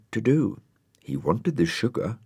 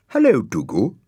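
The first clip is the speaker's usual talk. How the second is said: high, louder, pointed hello; acid greeting; 6 semitones higher, 6 dB louder than usual. Acted. Florence greeting disguised Dougal, acidly. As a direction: greet him with sour sweetness. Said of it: "said Florence acidly".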